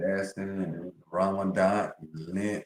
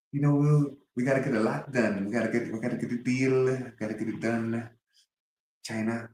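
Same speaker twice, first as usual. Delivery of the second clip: Trump impression; 2 semitones higher, faster than usual. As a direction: rattle it off like Trump. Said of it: "why Donald Trump talk like that".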